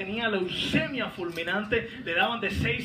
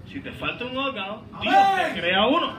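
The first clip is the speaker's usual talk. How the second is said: emphatic repeat; 2 semitones higher, 6 dB louder than usual. Real, not acted. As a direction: repeat it, lifting the second half for a response. (repetición enfática que sube de volumen)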